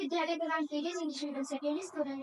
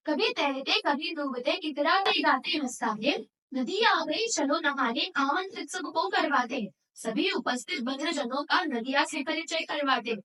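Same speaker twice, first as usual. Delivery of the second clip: measured, rhythmic declaiming of verse; poem recitation. Acted. Student presenting a river poem to an audience, rhythmic recitation. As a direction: recite line by line in a steady beat. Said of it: "कविता नदी कंधे पर प्रस्तुत करने".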